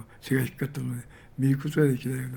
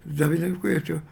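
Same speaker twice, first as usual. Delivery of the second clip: mock cry out; 4 semitones higher than usual. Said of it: "叫んだんですね".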